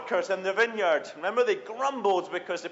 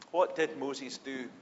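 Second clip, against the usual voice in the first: softer, slow, lowered question; hushed repeat; 5 semitones lower, 6 dB quieter, slower than usual. Shown as a demonstration. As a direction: draw them in with a quiet echo.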